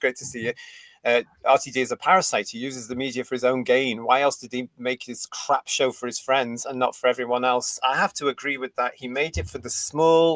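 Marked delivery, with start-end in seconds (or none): none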